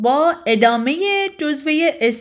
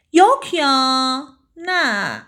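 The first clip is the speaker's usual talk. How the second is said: drawn-out disbelieving exclamation; slow surprise; much slower than usual. Shown as a demonstration. Demonstrating disbelief for students, slowly. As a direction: stretch it out in disbelief.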